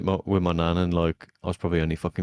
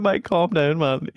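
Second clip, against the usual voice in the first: imitating calming down; 11 semitones higher, 5 dB louder, slower than usual. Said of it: "I, like, calmed him down over the phone".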